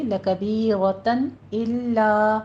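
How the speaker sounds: لَکَبِیرَةً إِلَّا slow, with the hamza said clearly. Shown as a demonstration. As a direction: recite لَکَبِیرَةً إِلَّا slowly, hamza distinct. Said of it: "اظہار حلقی کریں گے".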